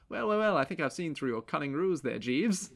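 pretentious, smug English gentleman; smug English accent. Acted. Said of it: "smug with an English accent".

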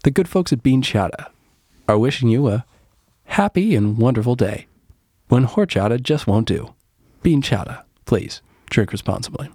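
measured public-service announcer; tongue-in-cheek ad read; mock sponsor read. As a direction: read it like a PSA sponsor tag.

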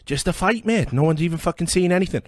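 high, loud mocking impression of a friend; mimicking a friend. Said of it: "And you were going".

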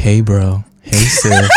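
teasing impression of a sultry podcast voice; low, put-on sexy greeting; mock sexy voice. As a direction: tease a friend's sultry delivery. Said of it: "she been having her little sexy voice".

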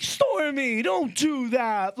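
high, slow pet voice; baby talk to dog. Retold or imitated. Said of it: "that's how we're talking".

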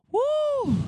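a big hype cheer; loud high woo. Real, not acted. Pleased with his own pettiness, loud woo. Whoop after "I'm so petty.

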